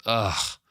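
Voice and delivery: a mock weary sigh of a fed-up parent; a lightly acted tired parental ugh; imitated parent's sigh. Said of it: "the parent who just sighs and goes".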